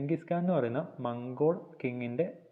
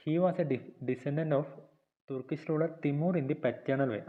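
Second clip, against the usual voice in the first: reads English notes slowly, word by word, for copying; slow dictation reading; much slower than usual. Shown as a demonstration. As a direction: dictate each phrase slowly so students can write. (പതുക്കെ dictation വായന)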